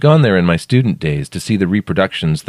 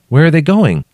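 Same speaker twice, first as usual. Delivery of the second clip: high, loud worried question; alarmed; 10 semitones higher, 6 dB louder than usual. A narrator's reading. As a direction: ask it in sudden alarm. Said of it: "I said, alarmed".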